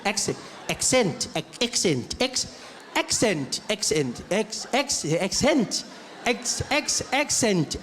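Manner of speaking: put-on "accent" tried over and over, varying the vowels; testing pronunciation. Nervous flyer rehearsing how to say "accent", testing pronunciation. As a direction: stammer "Ex-" then retry "accent" another way. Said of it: "is that how I say accent?".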